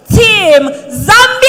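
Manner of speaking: slow, drawn-out team introduction shout; announcer call. Real, not acted.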